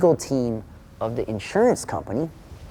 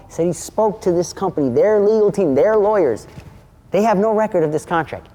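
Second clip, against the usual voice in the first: raised, insistent mock argument; retold confrontation; 4 semitones higher than usual. Storyteller confronting the dude over the fake contract, insistent. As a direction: lay out the evidence emphatically, pitched up.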